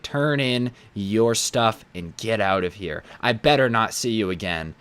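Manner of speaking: slow, measured mock dismissal; mock-stern boss. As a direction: act out a stern manager's slow order. Boss continues staged firing.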